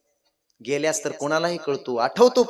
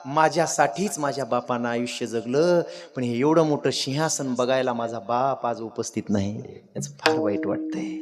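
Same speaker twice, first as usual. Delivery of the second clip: lamenting son; 5 semitones lower, 5 dB quieter than usual. Acted. King laments father's absence.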